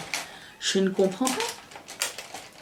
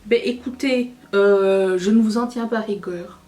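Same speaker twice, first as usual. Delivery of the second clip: mock scolding; 4 dB louder than usual. Gronde le public rêveur.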